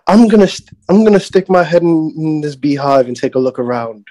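Australian wildlife-show daredevil; Australian Crocodile Hunter. Acted. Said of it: "his Australian accent was way better".

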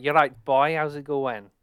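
quick Welsh accent demo. Shown as a demonstration. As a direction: say it like a cheery Welsh lad. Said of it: "That kind of thing".

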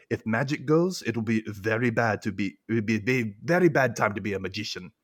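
lightly put-on foreign accent; Mayakovsky accent. Recapper voices Mayakovsky warning about magic, light put-on accent. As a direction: do a half-committed imitation of his accent. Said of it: "I have to do this accent with him".

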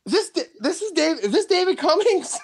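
high-pitched incredulous question; reliving the shock, voice shooting up; stunned disbelief. Retold or imitated. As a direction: stammer it out high, as if you can't believe it. Retelling his stunned disbelief.

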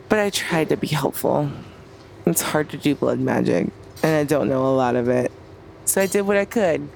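talking with a numb tongue; words thick from a numb tongue. Acted. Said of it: "my tongue is numb".

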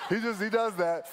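retold reply, laughing through the words; laughing shrug. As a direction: chuckle it out fondly. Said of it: "And I'm like".

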